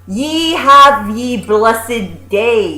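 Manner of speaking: hammed-up fair-goer send-off; mock olde English. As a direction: draw out the blessing grandly.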